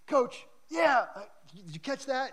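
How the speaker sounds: high, bright call over the shoulder; eager call to coach. Retold or imitated. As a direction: shout to the coach, hoping he saw. Eager player calling to coach.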